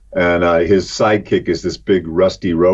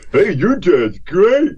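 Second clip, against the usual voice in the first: put-on excited kid; 11 semitones higher, much slower than usual. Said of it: "kids falling around".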